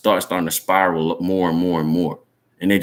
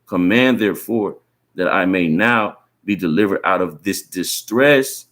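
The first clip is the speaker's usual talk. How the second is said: scripture reading. Real, not acted. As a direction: read the verse out deliberately, phrase by phrase. Reads scripture aloud.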